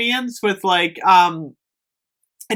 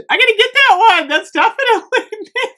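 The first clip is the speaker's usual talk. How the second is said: excited; 13 semitones higher, 5 dB louder than usual. Real, not acted. Excited about the new scent.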